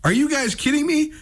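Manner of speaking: high, mock New York Italian uncle; a hint of an Italian New York uncle, incredulous; Italian-American accent. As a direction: ham up a lightly voiced Italian-American uncle. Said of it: "these hardcore Italian accents".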